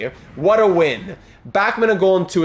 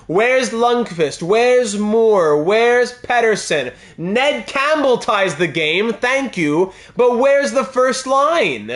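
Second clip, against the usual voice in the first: exasperated; 5 semitones higher, much slower than usual. Real, not acted. Star players not scoring in game.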